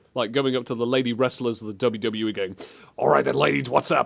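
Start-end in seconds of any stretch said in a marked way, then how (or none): 3.0-4.1 rough, creaky, raspy voice. Acting out a boss greeting the lady wrestlers: Vince McMahon voice. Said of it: "he sounds like Vince McMahon".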